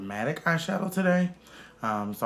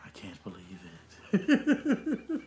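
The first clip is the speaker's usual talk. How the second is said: impression of a singer; 3 semitones lower, slower than usual. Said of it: "she said".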